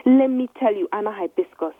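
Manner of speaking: angry. Acted. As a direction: warn her off with anger. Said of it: "sounding angry".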